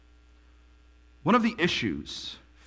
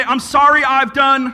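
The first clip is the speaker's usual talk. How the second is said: mock sheepish apology; 8 semitones higher, 9 dB louder than usual. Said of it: "We go to God and we say".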